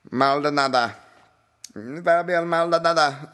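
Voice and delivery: high, drawn-out ring announcer call. Retold or imitated. Podcaster mimicking the announcer introducing the fighter, hyped call. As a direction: belt the name like a fight announcer.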